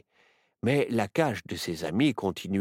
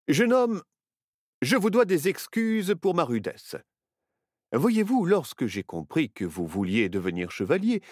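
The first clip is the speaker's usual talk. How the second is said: a hint of a kindly knight; lightly voiced gracious knight; noble knight; 2 semitones higher than usual. Knight explains himself.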